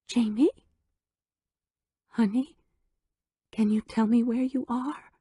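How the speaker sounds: mock-tearful mother pleading; faked sob. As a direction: pretend to be close to tears. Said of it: "She put a hitch in her voice, faked a sob".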